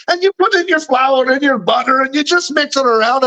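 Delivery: breezy mock-Scottish recipe voice; crazy Scottish guy. Imitating a YouTube cook mixing shortbread, Scottish accent. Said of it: "I watched this crazy Scottish guy".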